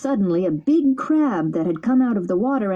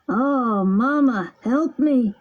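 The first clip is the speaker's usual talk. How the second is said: frightened cry; 5 semitones higher, much slower than usual. Acted. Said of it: "turned as white as a sheet and shouted".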